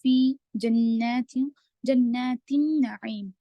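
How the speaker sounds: slow, drawn-out tajweed reading; Quranic recitation demo. Shown as a demonstration. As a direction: recite it slowly, stretching the vowels. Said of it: "फ़ा या ज़िर फ़ी या मद्दा है".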